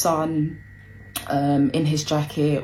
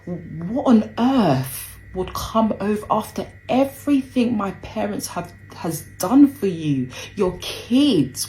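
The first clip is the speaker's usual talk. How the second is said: much higher, incredulous questions; hurt outrage rising on each why; indignant disbelief; 7 semitones higher than usual. Retold or imitated. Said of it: "I remember thinking in my head".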